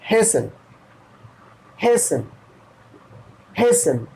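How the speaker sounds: हेसन said with short he then sən; teacher models हेसन for learners. Shown as a demonstration. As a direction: repeat हेसन slowly, syllable by syllable. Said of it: "add हो गया".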